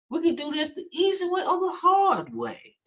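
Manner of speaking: hammed-up prison threat; Fleece Johnson impression. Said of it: "sound like Fleece Johnson".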